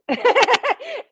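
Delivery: a sudden high, loud burst of laughter; laughing. Real, not acted. Host laughing because no comments come in. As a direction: laugh out loud at the silent chat.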